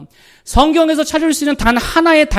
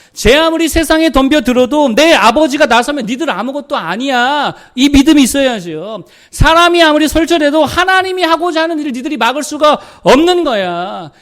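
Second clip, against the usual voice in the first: fiery preaching; 4 semitones higher, 6 dB louder than usual. Acted. Preacher defies world, raised voice.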